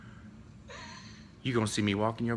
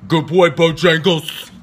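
Stephanie; 5 semitones higher, 14 dB louder, slower than usual. Retold or imitated. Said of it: "She got that deep Yankee voice".

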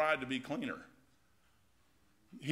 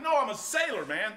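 proud sailor; 5 semitones higher, 3 dB louder than usual. Retold or imitated. Retold reply to shipmates.

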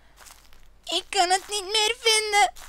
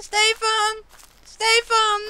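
roepen; slower than usual. Acted. Calling after the man.

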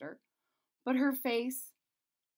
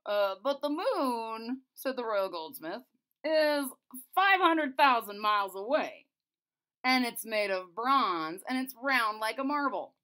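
goldsmith voice; 6 dB louder than usual. Acted.

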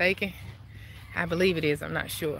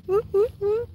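excited whoop; 12 semitones higher than usual. Real, not acted. Hype about food truck.

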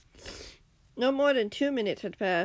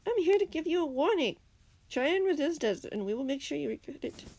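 villain threat; 7 semitones higher than usual. Acted.

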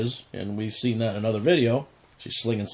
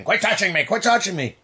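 put-on whiny kid; 5 semitones higher than usual. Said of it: "like two kids in the backseat".

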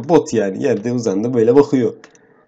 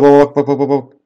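excited calling; 3 semitones higher, 6 dB louder than usual. Real, not acted. Urging dad to watch grasshopper.

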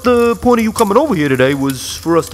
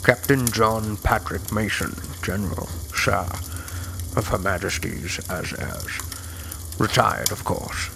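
Sean Connery; 10 semitones lower, 10 dB quieter than usual. Pretend. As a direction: purr it like Connery. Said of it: "a little Sean Connery from The Rock".

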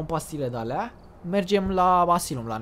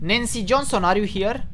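loud, higher questioning call; calling to a ghost; 5 semitones higher, 5 dB louder than usual. Real, not acted. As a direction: call out to an unseen spirit. (strigare întrebătoare, pe ton ridicat, către o fantomă)

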